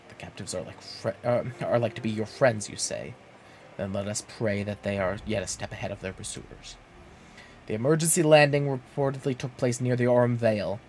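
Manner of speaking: lightly voiced creepy guy in black armor; creepy guard voice. Guard advises where to search, low and mildly creepy. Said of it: "He was, like, a creepy guy in".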